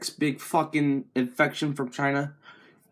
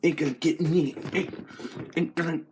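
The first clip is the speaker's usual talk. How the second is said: rising panic; 5 semitones higher, 7 dB louder, slower than usual. Acted. Sanitizer goes wrong, rising panicked yelps. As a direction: voice climbing higher and louder in mock panic.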